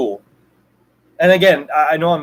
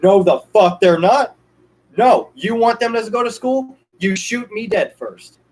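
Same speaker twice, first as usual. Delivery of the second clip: firm, emphatic no to the school; defiant refusal; 3 semitones higher than usual. Pretend. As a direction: push back hard, refuse outright. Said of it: "I would have told them".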